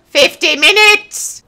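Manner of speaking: high, slow, indignant cry; outraged exclamation. Real, not acted.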